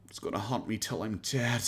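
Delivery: imitating someone haunted, trailing to a hush; mock anguish. Commentator mimicking Boogie's regret over saying that, mock anguished.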